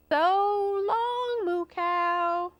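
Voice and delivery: high, drawn-out goodbye; sing-song high send-off; called-out farewell. Acted. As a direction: call after someone flying off. Aliens call farewell to cow.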